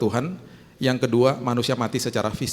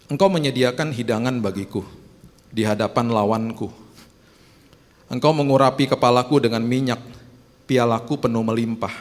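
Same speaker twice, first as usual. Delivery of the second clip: psalm reading; 3 dB louder than usual. Retold or imitated. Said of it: "dia katakan begini".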